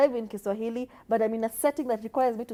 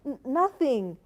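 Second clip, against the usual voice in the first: shy voice; slower than usual. Retold or imitated. Mocking shy podcasters, nervous giggle. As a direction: play it shy and bashful. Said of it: "talking like we were shy".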